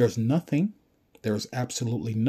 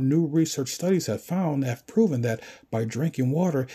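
lightly voiced official announcer, a bit raised; mock government announcement; 4 semitones higher than usual. Government warning the public to stop drinking water, mock announcement. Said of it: "if the government was to announce".

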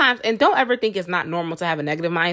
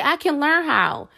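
higher, slow and sure; confident affirmation; 6 semitones higher, slower than usual. Shown as a demonstration. Vlogger modeling the positive phrase, slow and sure. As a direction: state it like a promise to yourself.

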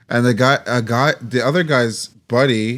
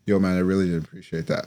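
soft, lower, anticlimactic mock complaint; underwhelming confrontation; 4 semitones lower, 6 dB quieter than usual. Angry player face to face with LeBron, underwhelming complaint. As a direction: deliberately let the big showdown fizzle. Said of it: "very underwhelming".

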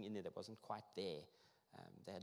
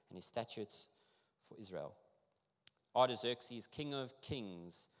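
formal reading of a royal letter; measured public Bible reading; scripture reading; 3 dB louder than usual. Acted. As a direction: proclaim the names and titles with deliberate weight. Reads scripture aloud.

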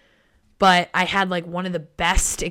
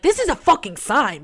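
thrilled realisation; 7 semitones higher, 6 dB louder than usual. Retold or imitated. Own realisation, louder, higher.

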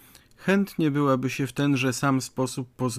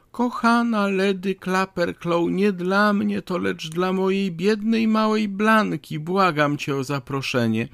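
higher-pitched, imploring lady's voice; tearful pleading; 4 semitones higher than usual. Acted. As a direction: beg a favour as if in tears, pitched high. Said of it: "przylata cała we łzach ... zawołała". (płaczliwe, błagalne wołanie wysokim głosem)

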